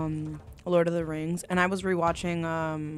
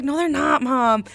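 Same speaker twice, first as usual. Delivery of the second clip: retold protest; 6 semitones higher, 4 dB louder, slower than usual. Retold protest to mom during show.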